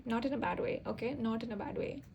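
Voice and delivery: not in a bad way repeated with emphasis; emphasizing. Shown as a demonstration. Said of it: "I'm emphasizing".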